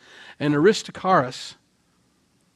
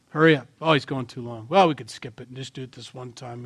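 louder impatient fan. Retold or imitated. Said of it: "you know".

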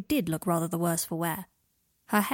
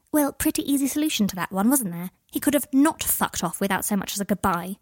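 scowling; 3 dB louder than usual. Acted. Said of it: "Pansy scowled".

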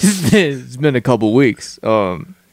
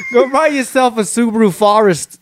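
higher Aussie ad voice slipping toward Boston; botched Australian accent; 10 semitones higher than usual. Retold or imitated. Failing at a car ad impression, Australian accent turning Boston. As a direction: try Australian and drift into Boston. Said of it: "I almost did a Boston accent".

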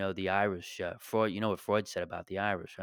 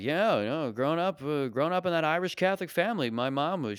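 raised-pitch parody of a heritage bit; mock Irish comic; 6 semitones higher than usual. Comic pretends to do an Irish family routine, mocking. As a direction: send up a comic reminiscing about family. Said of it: "What am I gonna be like".

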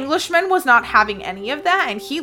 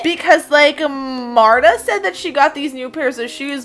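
louder, lively mock busybody; gossiping witch; 3 semitones higher, 5 dB louder than usual. Witch sharing household gossip about a neighbor, mock gossip. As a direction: dish the dirt, lightly hammed up. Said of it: "she also liked to share gossip".

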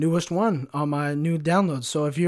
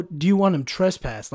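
higher, slightly louder retold question; dispatcher's first ask; 4 semitones higher, 4 dB louder than usual. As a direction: ask it higher, before turning serious. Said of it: "her voice changes".

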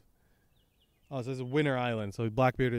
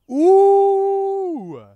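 very high, loud, drawn-out ooh; excited whoop; 11 dB louder than usual. Real, not acted. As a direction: whoop like a thrilled fan. Thrilled reaction to the panel.

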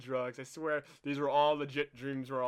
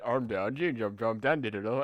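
mock Texan nonsense babble, louder; Texan gibberish; 3 semitones lower, 5 dB louder, slower than usual. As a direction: babble Sim speak like an old Texan. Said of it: "not words".

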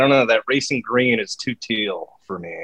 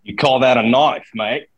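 put-on Australian accent; slower than usual. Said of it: "We've both done one".

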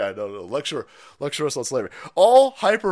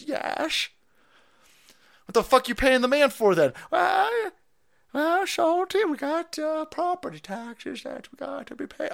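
a hint of a higher, gentle grandma voice; grandma answering patiently, lightly voiced; lightly voiced old grandma; 9 semitones higher, slower than usual. Grandma explaining property taxes to her grandson, a hint of an old lady voice. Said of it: "She goes".

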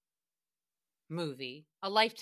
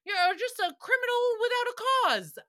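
mock dramatic; 12 semitones higher, 4 dB louder than usual.

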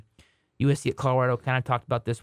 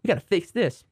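imitating Josh Dobbs; 4 semitones higher than usual. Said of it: "He was like".

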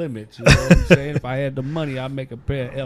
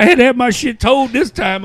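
amused high quote; 10 semitones higher, 9 dB louder than usual. Retold or imitated. Friend's quote retold.

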